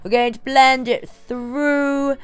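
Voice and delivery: lightly voiced grand dame, slow and drawn out; a hint of a theatrical diva, slowly; Meredith's voice. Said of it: "in Meredith's voice".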